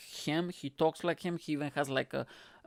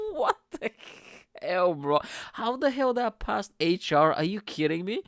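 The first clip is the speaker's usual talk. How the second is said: loud, high what the, then louder disbelief; real outrage; 4 semitones higher, 4 dB louder than usual. Real, not acted. Reacting to the show's racist jokes, loud outraged disbelief. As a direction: let the indignation burst out.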